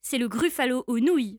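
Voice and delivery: small mouse voice announcing a favourite dish; cheeky mouse punchline; sly mouse threat. Acted. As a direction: deliver the threat with relish.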